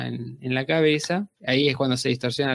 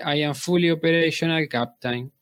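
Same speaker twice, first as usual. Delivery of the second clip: put-on old speech synthesizer. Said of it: "puede hablar como robot".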